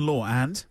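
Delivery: "law and" carefully said with no R between; consciously unlinked. Shown as a demonstration. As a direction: deliberately hold "law" apart from "and". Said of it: "You're consciously doing it now".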